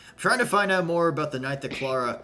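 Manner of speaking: indignant accusation bursting into a high, loud shout; acted angry shout, escalating suddenly; zero-to-sixty outburst. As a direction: blow up mid-argument. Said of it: "goes from zero to sixty".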